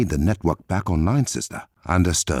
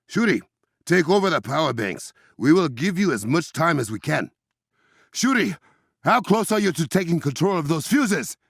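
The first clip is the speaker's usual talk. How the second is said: calling out; 10 semitones higher than usual. Acted. Calling sister over comms.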